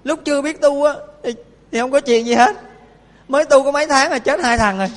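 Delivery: imitated aggrieved lament; tearful complaint. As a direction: complain bitterly like bereaved parents. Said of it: "Vô khóc lóc".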